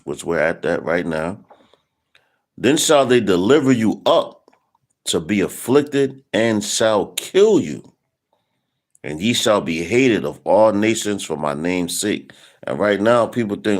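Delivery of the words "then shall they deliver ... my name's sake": scripture reading. Acted. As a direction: lean into every word of the verse. Reads scripture aloud.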